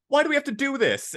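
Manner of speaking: high, fast whiny gripe; mock-complain like a fed-up character; high fast whine; whiny complaint. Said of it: "they're just like".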